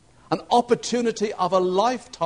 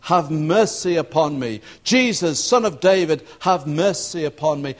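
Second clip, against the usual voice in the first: shouting. Retold or imitated. Blind beggar calls to Jesus for mercy, shouting. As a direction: call out over a crowd, not full force. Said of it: "this shouting".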